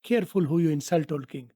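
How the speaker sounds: slow, careful model line; slow teaching read. Shown as a demonstration. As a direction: spell it out slowly for learners. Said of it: "ये कह के".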